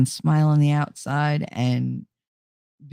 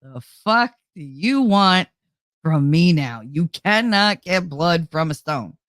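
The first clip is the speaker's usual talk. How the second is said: exasperated inner voice; slower than usual. Retold or imitated. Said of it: "it's very like".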